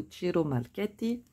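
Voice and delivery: second try at Ciro Marchetti in Italian; Italian accent. Shown as a demonstration. Host offering viewers another pronunciation, Italian accent. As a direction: say the name Italian-style, as an alternative reading. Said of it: "on va passer sur l'accent italien".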